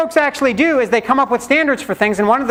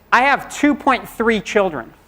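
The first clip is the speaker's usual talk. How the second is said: laughing joke; slower than usual. Pretend. Joke answer about children count.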